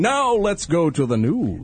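slow mock newsman read; Walter Cronkite. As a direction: play a lightly done old anchor, slow. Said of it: "Like you're Walter Cronkite".

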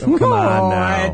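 incredulous. Real, not acted. Reacting to horse love story.

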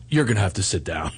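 laughing half-hearted mock; mock Amanda Bynes. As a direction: tease her voice while giggling. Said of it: "her voice comes up and goes".

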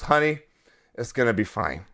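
low, soft deadpan imitation of dad; mock-calm reassurance. Son mimics naked dad soothing mom, mock-calm.

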